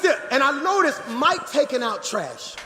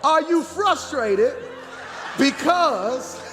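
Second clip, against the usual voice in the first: slow, punched-out pulpit question; stretched, raised preacher's delivery; emphatic preaching; 3 semitones higher, slower than usual. Real, not acted. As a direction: run it back slowly so every word lands. Runs the line back for congregation.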